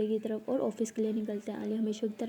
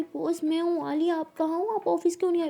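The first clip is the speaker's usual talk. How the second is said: anxious phone call; 6 semitones higher, 4 dB louder than usual. Acted. Worried call to absent boss.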